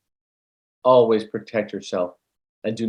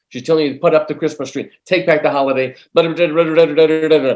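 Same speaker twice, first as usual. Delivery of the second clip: louder, higher, insistent rush of relayed words; retold urgent message; 5 semitones higher, 7 dB louder, faster than usual. Medium relaying a dead girl's message to her mother, urgent. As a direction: rattle off the message, building into loud blahs.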